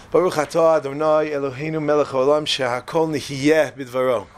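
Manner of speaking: low, even Hebrew blessing; blessing recitation. Real, not acted. Speaker saying a blessing aloud for the room, measured recitation.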